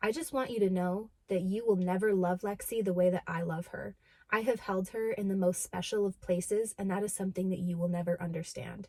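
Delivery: low, deadpan, earnest, dead serious, no joking. Retelling what someone said to the fiance: imitating Brad's dead serious tone. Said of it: "again, dead serious face".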